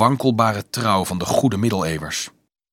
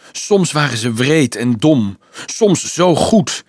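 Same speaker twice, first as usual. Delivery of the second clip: heartfelt; 3 semitones higher, 4 dB louder, slower than usual. Acted. Boy's heartfelt slow reflection.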